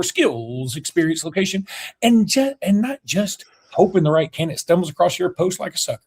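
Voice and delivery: animated podcast sponsor read. Real, not acted. Host selling a job service to podcast listeners, ad read. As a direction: pitch it to listeners with punched key words.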